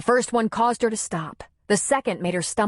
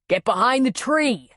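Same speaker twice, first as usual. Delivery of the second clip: urgent yell; 5 semitones higher than usual. Acted. Man aiming rifle yells at woman, urgent. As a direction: order her to cover. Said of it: "he yelled".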